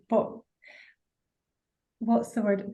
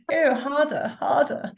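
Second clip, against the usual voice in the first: posh accent; 4 semitones higher, slower than usual. Shown as a demonstration. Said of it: "So I had to do a posh accent".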